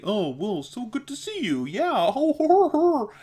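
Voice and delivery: high, sing-song chummy greeting; friendly small talk. Retold or imitated. Someone greeting the speaker before hearing of the autism, mock friendly. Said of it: "they'll, they'll talk to you normally".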